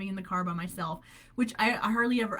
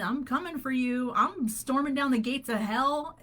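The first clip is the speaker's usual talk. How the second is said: higher-pitched, bold declaration; with conviction; 5 semitones higher, 4 dB louder than usual. Retold or imitated. Speaker quoting a favorite song at the devil, with conviction. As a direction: declare it like a battle cry. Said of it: "speak these out loud with conviction".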